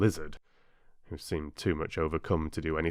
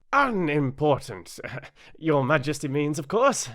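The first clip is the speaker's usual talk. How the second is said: high, loud, overly respectful correction; 8 semitones higher, 5 dB louder than usual. Acted. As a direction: White Rabbit correcting the king respectfully. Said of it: "in a very respectful tone".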